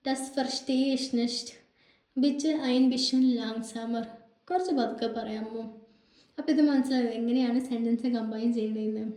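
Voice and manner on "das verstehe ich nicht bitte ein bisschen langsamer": very slow, word by word; drawn-out classroom German; slow teaching demo. Shown as a demonstration. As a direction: model the sentences slowly for learners. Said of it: "teacher demonstrating German phrases".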